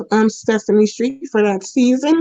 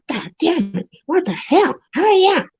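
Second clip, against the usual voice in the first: rising exasperated outburst, pitch climbing high; cursing at the silent phone, getting shriller; impatient cursing; 5 semitones higher than usual. Retold or imitated. Waiting for the callback, impatient shrill cursing.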